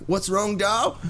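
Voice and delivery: high, drawn out "doll"; mock bogan husband. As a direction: ask her like a tough bloke. Bogan husband turning to wife.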